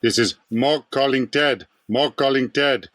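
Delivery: a hint of alien Mork calling out; playful slowed sitcom call; Mork catchphrase. A dead star signs off to the host, mild Mork voice. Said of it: "I'll put a little twist on it".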